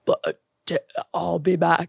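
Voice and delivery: low, quiet Austrian action hero; deep, soft mock Terminator line; Arnold Schwarzenegger impression. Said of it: "Arnold Schwarzenegger".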